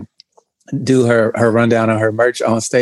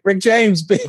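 fans shouting catchphrase; 7 semitones higher, slower than usual. Retold or imitated. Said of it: "people kept walking up to him".

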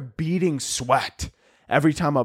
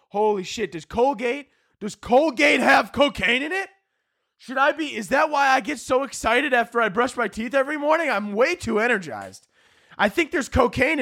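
mock paranoid panic; 8 semitones higher than usual. Paranoid panic about toothpaste.

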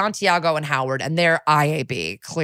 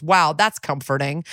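sarcastic. Retold or imitated. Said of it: "borrowing some sarcasm from Jeffries".

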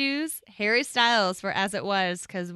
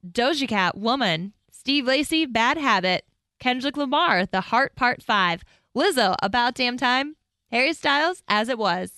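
projected awards-show nominee read; TV announcer; 3 semitones higher than usual. Shown as a demonstration. Reading nominees to co-host on request, TV announcer voice. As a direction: present each nominee like a Grammys announcer. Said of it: "your T V voice".

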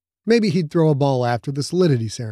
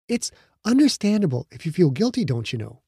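lightly voiced young woman, a bit higher; a hint of a teasing girlfriend; Becca's voice; 4 semitones higher than usual. Becca gently teasing her boyfriend about his guilt, lightly voiced.

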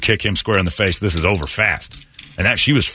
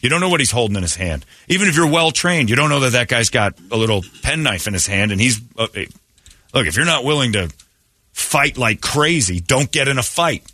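raised, insistent coaching voice; pressing the point hard, higher; urgent advice; 4 semitones higher than usual. Retold or imitated. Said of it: "I'm like".

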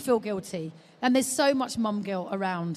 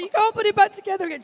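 put-on teasing baby talk; 10 semitones higher, 6 dB louder, faster than usual. Teasing baby with rice cake.

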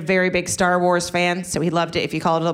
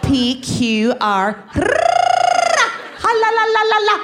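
laughing; 5 dB louder than usual. Real, not acted. Spelling her name, laughing.

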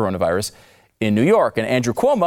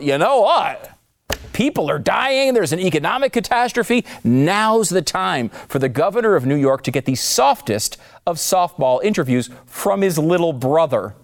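sarcastic mock quote; 3 semitones higher than usual. Mocking CNN's imagined reasoning.

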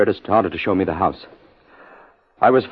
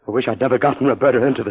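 distraught; 3 semitones higher, faster than usual. Acted. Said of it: "Steady, steady".

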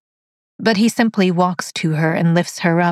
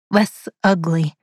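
usual speaking voice

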